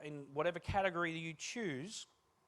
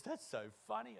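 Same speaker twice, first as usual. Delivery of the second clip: mock laughing; 7 semitones higher, 5 dB quieter than usual. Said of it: "She goes".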